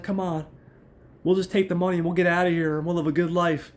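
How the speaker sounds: high, hurried mock pleading; imitated coaxing woman. Monica coaxes Chip to run off, high hurried imitation. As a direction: talk him round in a put-on high voice.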